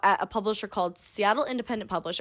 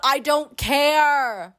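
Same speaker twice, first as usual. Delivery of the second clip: dismissive; 3 semitones higher, 3 dB louder, much slower than usual. Real, not acted. Sarcastic dismissal.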